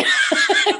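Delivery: breathy high laugh. Real, not acted. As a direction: burst out laughing. Laugh burst.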